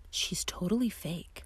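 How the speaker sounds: soft, dismissive aside with an eye roll; eye-rolling disdain. Acted. Friend dismissing a woman at brunch, eye-rolling disdain. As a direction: toss it off quietly, lightly scornful. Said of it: "one says with an eye roll".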